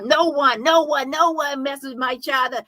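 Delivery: mock her indignant denial, half-hearted; imitating Shelly Carter. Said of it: "She's, she's like this too".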